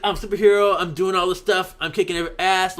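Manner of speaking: loud, high, hyped-up boasting; gung-ho mock superhero. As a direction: play an overexcited hero charging into battle. Paige leaping into battle.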